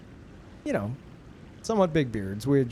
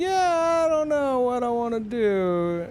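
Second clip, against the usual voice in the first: high mock voice; 11 semitones higher than usual. Mock chat voice quote.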